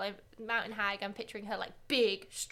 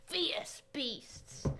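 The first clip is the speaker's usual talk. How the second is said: whispered; 5 dB quieter than usual. Acted. Dramatic card reading ends hushed.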